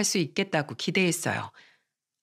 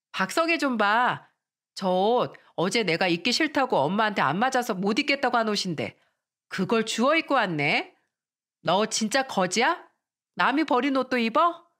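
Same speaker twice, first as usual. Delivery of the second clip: mocking classmate; 3 semitones higher than usual.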